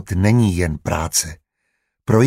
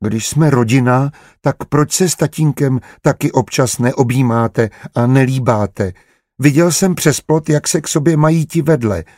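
put-on curious child; 5 semitones higher than usual. Dítě se vyptává otce.

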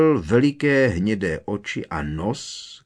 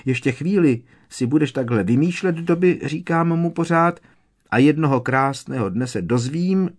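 high, louder elf warning; scolding elf; 6 semitones higher, 4 dB louder than usual. A narrator's reading. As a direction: wag a finger with your voice. Elf retells her warning.

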